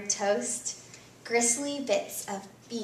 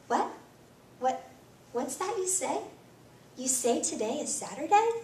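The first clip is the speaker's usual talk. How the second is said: sudden surprise; 2 semitones higher than usual. Acted. Girl faking sickness suddenly hears good news, surprised. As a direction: perk up in surprise.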